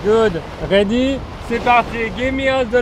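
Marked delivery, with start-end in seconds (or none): 0.7-1.2 put-on French accent. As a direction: say Ready with a French rolled R. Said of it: "I forgot my French accent".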